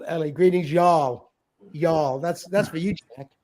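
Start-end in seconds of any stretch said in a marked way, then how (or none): 0.3-2.2 slow, stretched Tennessee drawl on "y'all". Acted. Host greets Jack, teasing, in a slow Tennessee drawl. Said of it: "In your Tennessee drawl".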